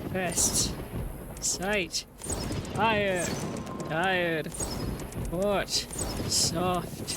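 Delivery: solemn recital, word by word; put-on reading voice. Real, not acted. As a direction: read each word on its own in an odd put-on voice. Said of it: "I don't know why I'm using this voice".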